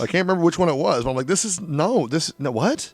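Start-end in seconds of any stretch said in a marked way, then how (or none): 1.3-2.9 retold confusion, higher and stammered; totally thrown, replaying the moment; baffled. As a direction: stumble over it in mock bewilderment. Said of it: "I was just confused".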